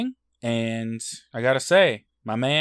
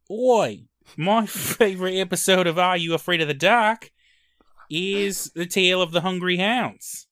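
put-on whispered, higher Australian accent; 7 semitones higher, 3 dB louder than usual. Cohost asked for his best Australian accent, whispered Australian. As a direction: breathe it out like a hushed Aussie. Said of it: "I'd like to hear your best Australian accent".

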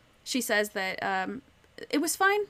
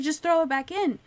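higher, louder panicky plea; upset girl; 6 semitones higher, 5 dB louder than usual. Retold or imitated. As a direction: beg like a scared ten-year-old. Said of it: "she freaks out".

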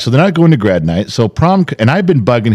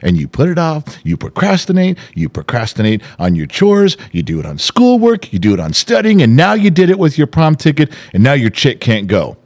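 high, heated mock rant at his son; reliving a furious rant; 7 semitones higher than usual. Father reliving yelling at his son, heated high rant. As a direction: tear into him for procrastinating, pitch way up. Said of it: "I lost my mind".

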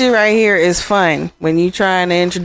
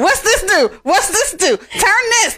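curious button pushing; 11 semitones higher than usual. Retold or imitated. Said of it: "we go in here going".

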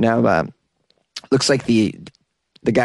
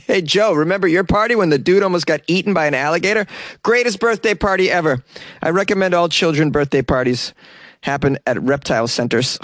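put-on excited kid; 4 semitones higher than usual. Kid voiced years later.

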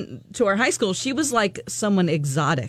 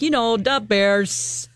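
put-on Chicago accent; much slower than usual. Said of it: "Can you do a Chicago accent?".

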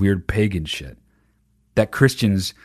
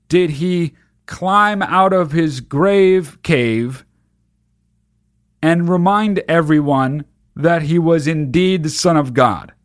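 high, slow, hammed-up preacher quizzing kids; milk the gory details like a theatrical pastor; mock preacher; 6 semitones higher than usual. Pastor's gory Easter quiz question.

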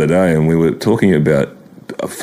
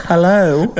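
a dry, amused hello; Benaud's hello; 10 semitones higher than usual. Retold or imitated. Repeating Benaud's surprised call, amused. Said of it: "Richie Benaud go".

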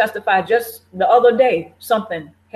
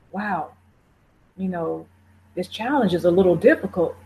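soft, gentle, much quieter; loving self-talk; 3 semitones lower, 4 dB quieter than usual. Retold or imitated. Talking kindly to yourself when things get hard, softly. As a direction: ease into it kindly, like soothing a hurt child. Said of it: "Do you lovingly pep talk yourself?".

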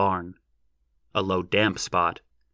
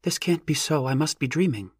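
high, wondering voice; awestruck; 6 semitones higher than usual. A narrator's reading. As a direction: say it in disbelief. Awestruck girl at the giant.

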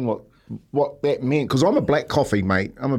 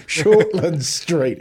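mock French accent; 3 semitones higher, much slower than usual. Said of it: "he started French and then he turned into Basil Fawlty".

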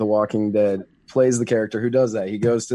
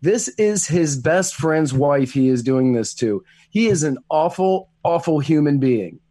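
slow, higher, outraged emphasis; indignant rant; 3 semitones higher, slower than usual. Real, not acted. Friend condemning the film character, slow indignant rant. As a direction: drag each word out in disbelief.

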